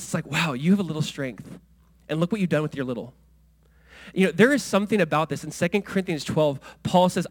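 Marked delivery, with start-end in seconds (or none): 0.3-3.1 genuinely impressed, gentle wow; sincere admiration. Shown as a demonstration. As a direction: honor their small strength, sincerely. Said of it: "I think there's something about this".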